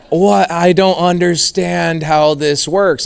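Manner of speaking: mock dumbfounded, slow and drawn out; stunned, slow-motion disbelief, imitated; retold bafflement. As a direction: play the agent struggling to understand. Retold agent baffled by offer.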